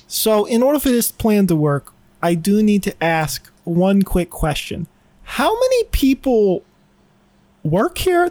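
put-on Boston accent. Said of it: "So I'm gonna try to be Boston".

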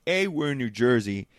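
loud, point-by-point mock comeback; loud smart-ass retort. Friend correcting an angry Jets fan, loud and cocky. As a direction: holler the correction like a drunk know-it-all.

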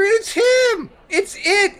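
shouting in panic; panicked shout. Acted. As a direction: yell the accusation in panic. Panicked denial.

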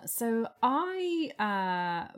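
ordinary talk, nothing marked

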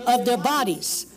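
commanding, rising intercession; preaching at full force. Acted. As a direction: rebuke the devil with authority. Commands devil in prayer.

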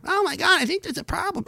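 high, breathy near-whisper; mock gasp. Vlogger mocking latecomers with high hushed fake alarm. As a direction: play them as dimly alarmed. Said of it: "you know".

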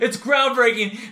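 mock-profound, slow, stretching out "groundbreaking"; hammed-up pretentious declaration, laughing through it; grand pronouncement. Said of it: "The way I just said it was like".

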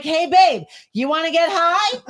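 friendly invite. Retold or imitated. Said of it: "next time I'll come out and be like".

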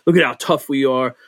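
tough guy posturing. Retold or imitated. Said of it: "bands get up on stage and posture".

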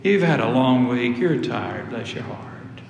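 coaxing voice fading to a whisper; tempting inner voice. Retold or imitated. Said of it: "a voice in your ear this morning that said".

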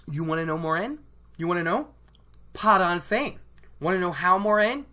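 taunting Moraine with the answer, rising on each question; mocking rant. Real, not acted. A fan taunting Moraine in a mock rant. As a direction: needle her like a smug know-it-all. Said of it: "Stupid rant".

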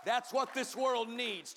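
loud ringing preacher's call; preached line. Acted. Pastor driving the point home to the congregation, loud. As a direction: hammer it home. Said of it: "Turn to someone and say".

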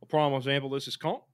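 Australian pronunciation of "cunt"; Australian accent. Acted. Host reading pronunciation example, Australian accent. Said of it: "this is some accent advice from me".

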